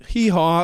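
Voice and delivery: quick offhand hee-haw; half-hearted donkey imitation; imitated donkey bray. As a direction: toss off a mock donkey noise. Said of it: "lean out the door and go".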